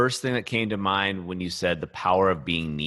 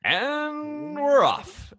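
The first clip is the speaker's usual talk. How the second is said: high, drawn-out race caller shout; horse race commentator; much slower than usual. Acted. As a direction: call the start of the race. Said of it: "a commentator for, like, horse racing".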